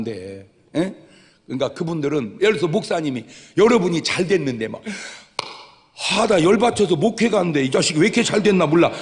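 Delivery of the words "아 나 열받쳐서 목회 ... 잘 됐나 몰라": louder, higher grumbling pastor; hammed-up resentful pastor; mock jealous pastor. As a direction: play a pastor fuming at a member's success.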